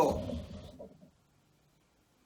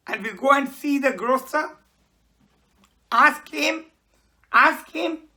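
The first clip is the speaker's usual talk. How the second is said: higher, pleading urgency; urgent plea; 5 semitones higher, 5 dB louder than usual. Acted. Baker urging Jim to confront the grocer. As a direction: press him to come now.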